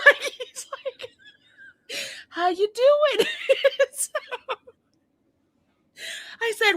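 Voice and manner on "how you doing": high-pitched mock of husband checking in; tentative check-in, voice pitched way up; careful politeness. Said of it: "he's talking just like this. Very polite".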